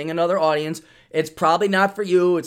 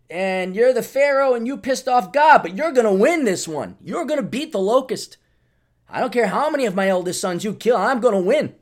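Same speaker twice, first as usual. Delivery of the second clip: higher, pumped-up hype voice; mock pep talk; 5 semitones higher than usual. Mocking his own motivation to listeners, hammed-up hype. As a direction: hype yourself like a coach.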